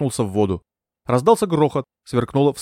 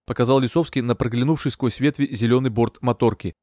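ordinary delivery, nothing marked

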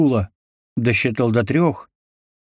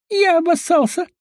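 much higher hysterical voice; hysterical delirium. A narrator's reading. Wounded dwarf babbles hysterically, delirious. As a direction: babble in shock. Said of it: "истерично смеющегося".

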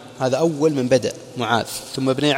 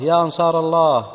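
rising call, louder and higher each time; retold loud cry; 5 semitones higher, 8 dB louder than usual. Bilal calling for helpers against Umayya, building to a shout. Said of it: "ثم صرخ بأعلى صوته".

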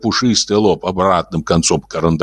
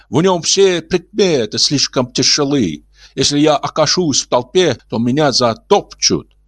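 gentle alien voice; 8 semitones higher than usual. Acted. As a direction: speak like a kindly old alien. Martian Ulin voiced.

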